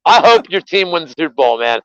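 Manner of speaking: calling out to chat. Real, not acted. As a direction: hype up a viewer by name. Calls out to a chatter.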